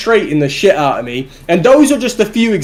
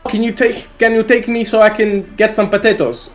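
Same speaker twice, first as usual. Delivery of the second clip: higher-pitched imitation of a Russian woman; Russian accent; 4 semitones higher than usual. Russian date asking for potatoes at the shop, lightly imitated Russian accent. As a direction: put on a Russian accent for the request. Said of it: "are you having in Russia".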